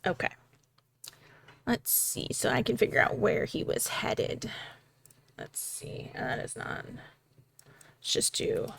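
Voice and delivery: whispered muttering while searching; whispering to self. Real, not acted. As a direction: mutter it under your breath, thinking.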